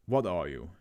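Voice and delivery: lightly deepened doctor's voice; a hint of a low, serious doctor. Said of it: "I will give Doctor Brown a deeper voice".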